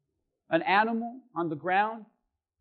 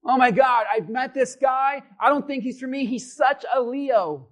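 mocking churchgoer. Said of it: "Christians talk like this".

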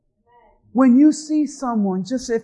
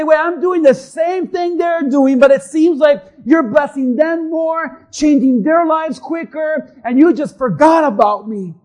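aggrieved complaint to God; 3 semitones higher, 5 dB louder than usual. Acted. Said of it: "And you say".

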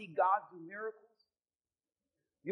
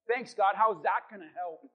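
deadpan reply; 4 dB louder than usual. Acted. Moses's deadpan reply after shouted preaching.

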